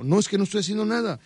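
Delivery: lightly voiced idle singer; mock singer. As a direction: rattle off the lazy excuse. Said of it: "Me dijo".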